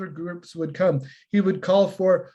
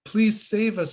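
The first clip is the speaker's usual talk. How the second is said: first plea, higher and a bit fuller; scared boys' first cry for help; pleading call; 5 semitones higher than usual. Retold or imitated. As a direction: beg for rescue, reaching up. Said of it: "they call out".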